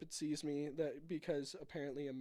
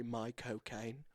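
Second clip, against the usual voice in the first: Michael Caine said slowly in a lower, mock British accent; 4 semitones lower, slower than usual. Shown as a demonstration. Showing his cohost how to do it, slow mock British accent. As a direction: drawl Michael Caine like a half-serious British impression. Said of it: "to do a Michael Caine accent, you just say".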